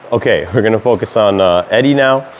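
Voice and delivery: lisping through missing teeth. Real, not acted. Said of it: "I'm so conscious about the lisp".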